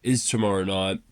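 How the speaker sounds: sick, groggy voice with a cold. Real, not acted. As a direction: talk through a heavy head cold. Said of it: "if I sound a bit ill or, you know, a bit groggy".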